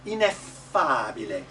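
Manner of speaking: "Ineffabile" with a bright Italian ah; brighter ah. Shown as a demonstration. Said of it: "it's a brighter ah".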